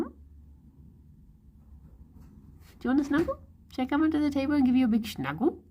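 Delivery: doting pet voice, rising questions; cooing pet talk. Real, not acted. Cooing to the dog under table.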